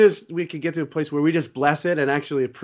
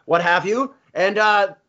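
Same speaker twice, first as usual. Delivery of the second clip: rock guitarist impression. The imitated musician explaining his frustration songs, lightly voiced. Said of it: "It's a rock guitarist".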